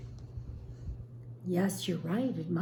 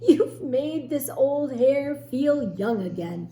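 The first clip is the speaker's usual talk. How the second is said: laughing; 6 semitones higher, 7 dB louder than usual. Acted. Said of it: "he laughed".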